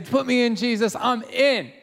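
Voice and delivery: volunteer keenly, imitating an eager follower. Eager Peter volunteering in story.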